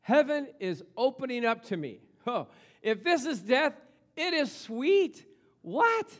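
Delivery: loud, high, slow ecstatic words of a dying preacher; D L Moody's ecstatic last words, voiced loud and high; dying man's vision. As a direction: cry out in rapture at heaven's gate. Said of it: "he woke up and he says".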